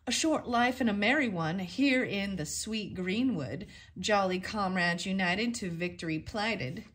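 calling out the password. Acted. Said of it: "raised his voice and answered".

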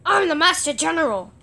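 lightly voiced general; put-on general voice. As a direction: announce yourself as a toy commander. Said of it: "I have a voice for him".

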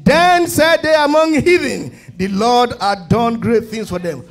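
measured reading of a psalm, falling at phrase ends; scripture reading. Acted. Preacher reads the psalm to the congregation, in a measured reading voice. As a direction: read the psalm to the church like a lesson.

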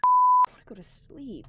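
high, very loud desperate wail; wailing scream. Real, not acted. Tired gamer screaming about wanting sleep. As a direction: howl it out in despair.

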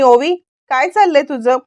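a mother scolding her daughter, pitch climbing; mild acted scolding that rises; mother telling off her child, lightly voiced. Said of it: "ओरडायला लागते".

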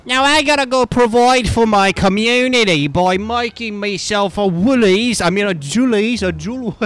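high, hammed-up Australian twang; mock Australian accent. Gamer off to provide for his community, high mocking Australian accent. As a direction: put on a broad Australian accent, pitched high. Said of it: "Mocking accents is my strong suit".

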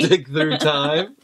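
put-on slow, drawn-out Southern accent; mock Southern accent. Husband making his wife laugh, slow mock Southern accent. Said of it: "There's your Southern accent".

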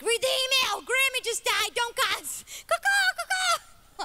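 loud high urgent warning; God urging her not to cuss, loud and high; God's voice. Acted. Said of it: "so he's like".

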